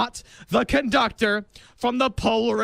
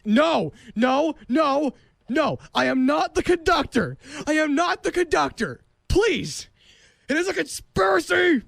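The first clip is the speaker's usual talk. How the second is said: higher, hammed-up denial; mock protest; 5 semitones higher than usual. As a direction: protest too much, higher. Escalating protest.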